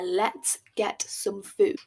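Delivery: each word drawn out slowly, "get" leaned on; slow, pointed repeat of "Let's get some food"; slow repeat for emphasis. Shown as a demonstration. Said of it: "That's a key, key moment there".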